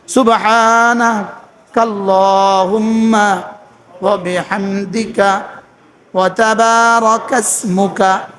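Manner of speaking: drawn-out, measured Arabic recitation; slow prayer recitation. Shown as a demonstration. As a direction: recite each phrase slowly, devoutly. (ধীরে ধীরে দোয়া তিলাওয়াত)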